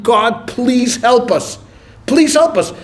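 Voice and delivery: drawn-out, earnest prayer plea; acted plea to God; heartfelt plea. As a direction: plead slowly, as if you mean it. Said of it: "when someone really feels it".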